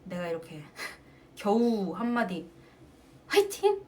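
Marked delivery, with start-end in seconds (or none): 3.3-3.8 high cheer hiding panting, much higher; mock bright fighting cry while gasping; faked cheer. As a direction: squeak out a cheer to hide being out of breath. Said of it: "헐떡거리는 거 숨기려고".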